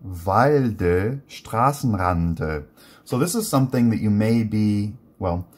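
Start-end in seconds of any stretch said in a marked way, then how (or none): 0.0-2.6 "Walde" and "Straßenrande" read slowly, final e sounded clearly; showing the ending. Shown as a demonstration. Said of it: "So notice this".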